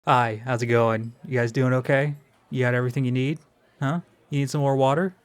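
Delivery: friendly waiter checking on a table; customer service voice. Shown as a demonstration. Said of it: "I call it my customer service voice".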